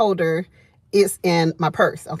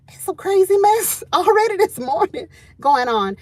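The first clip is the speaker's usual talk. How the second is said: laughing disbelief; 11 semitones higher than usual. Retold or imitated. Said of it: "I text messaged my husband".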